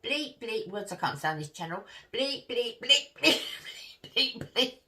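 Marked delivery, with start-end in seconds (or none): 0.0-0.7 mock loud cursing, higher; bleeped-out swearing from across the room. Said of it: "and all I heard was very loudly". 2.1-4.8 mock loud cursing, higher; bleeped-out swearing from across the room. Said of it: "and all I heard was very loudly".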